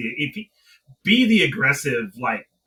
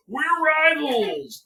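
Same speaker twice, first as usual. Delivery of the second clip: high, slow mock declaration; a pompous announcement, lightly mocked; mock proclamation; 13 semitones higher, much slower than usual. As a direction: drag it out like a silly pronouncement. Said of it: "you're suddenly like".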